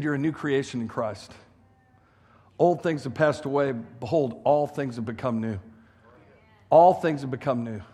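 low and soft, letting each phrase settle; solemn quoted pronouncement. Retold or imitated. Preacher tells hungover newcomer he is made new, solemn and hushed.

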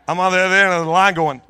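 high, loud, exuberant burst; gleeful shout. Acted. Husband secretly glad the goat drowned, gleeful shout. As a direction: belt it out in celebration. Mock outburst at goat's death.

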